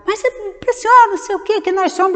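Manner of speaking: high, quick mock pestering; lightly voiced insistent visitor. Insistent evangelical visitor at the gate.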